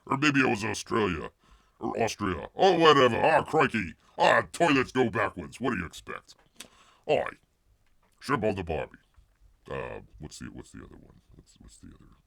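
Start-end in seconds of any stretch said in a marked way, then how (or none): 2.6-9.0 hammed-up Aussie catchphrases; bad Australian accent. Host shows off the few Aussie phrases known, bad Australian accent. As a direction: throw out stock phrases in fake Australian. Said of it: "I tried a bad Australian accent".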